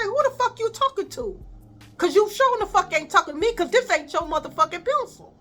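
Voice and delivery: high, fast, cursing back hard; angry comeback. Retold or imitated. Student to teacher refusing the pencil, fast high angry retort. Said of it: "Like that".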